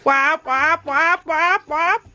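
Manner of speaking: lightly voiced bird quacking for a toddler; playful penguin quack. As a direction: quack along in a mock penguin voice. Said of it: "Go on, walk like a penguin".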